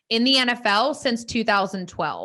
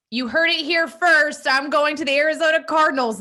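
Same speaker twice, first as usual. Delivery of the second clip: announcement voice; 5 semitones higher, 4 dB louder than usual. Retold or imitated. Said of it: "if he would have just been like".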